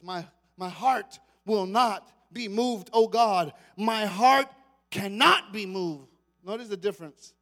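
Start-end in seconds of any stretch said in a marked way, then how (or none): 0.0-6.1 slowed, emphatic resolve; David declaring, lightly voiced. Preacher voicing David's resolve to the congregation. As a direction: stand firm on every word.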